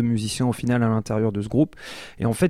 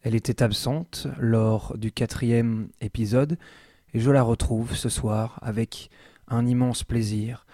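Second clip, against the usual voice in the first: poetic intro. Real, not acted. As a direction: deliver it like an improvised spoken poem, phrase by phrase. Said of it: "un petit peu poétique, lyrique même".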